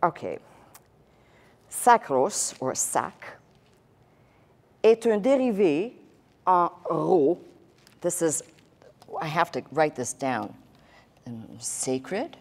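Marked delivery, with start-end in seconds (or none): 1.7-7.4 est un dérivé en ro read haltingly with French sounds. Shown as a demonstration. Teacher reading the French book aloud, halting. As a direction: sound out the French phrase piece by piece. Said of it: "I'm gonna read the French".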